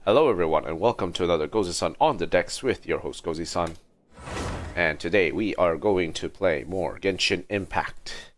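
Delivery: lightly hyped streamer opener; stream host intro. Acted. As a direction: greet the viewers like a show host opening. Stream host opening the show.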